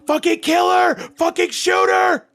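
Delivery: full-force high shouted order; frantic battlefield yell. Acted. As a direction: scream it at them, high and very loud. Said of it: "who is yelling to shoot her".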